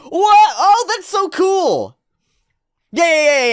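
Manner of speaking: high, loud delighted surprise; amazed. Real, not acted. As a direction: gush over the cool move. Amazed by diver move.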